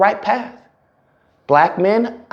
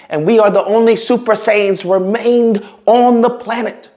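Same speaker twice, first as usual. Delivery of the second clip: mock heroic rallying; 4 semitones higher than usual. Hyped Super Saiyan rallying call.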